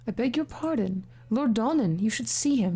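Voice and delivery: lightly attempted Irish accent. Villager pointing a visitor to Lord Donnan, loose Irish accent. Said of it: "I get the feeling they're Irish".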